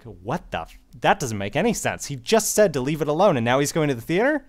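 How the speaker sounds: baffled viewer, pitch climbing to a questioning end; incredulous. Acted. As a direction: puzzle it out in rising disbelief. Acting out viewer's puzzled reaction.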